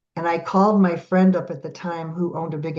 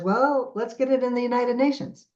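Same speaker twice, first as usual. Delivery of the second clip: naive inner voice; 6 semitones higher than usual. Retold or imitated. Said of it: "my human brain says".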